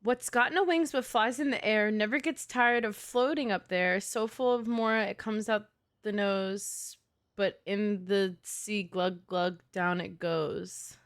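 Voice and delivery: slow, fading riddle recital; reading a poem. Acted. Reads the full riddle poem.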